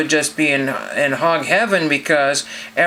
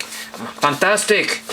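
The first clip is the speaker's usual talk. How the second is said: drawn-out, higher playful "fantastic"; mock-grand exclamation, slow and higher; playful put-on voice; 4 semitones higher, much slower than usual. Repeats the word in put-on voice.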